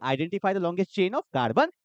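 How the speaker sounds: slowed down, each word laid out; a teacher spelling out the key rule slowly; slow emphatic repeat. Shown as a demonstration.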